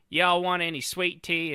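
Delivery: high drawled Southern accent. Shown as a demonstration. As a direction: offer tea, Southern style. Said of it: "somebody from the South".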